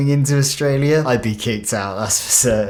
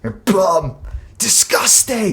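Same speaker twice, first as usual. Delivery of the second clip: hammed-up, high-pitched disgust; mock insult; 8 semitones higher, slower than usual. Locals react to a foreigner saying hello, mock disgust. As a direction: imitate a heckler, pitched up high. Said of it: "and they're like".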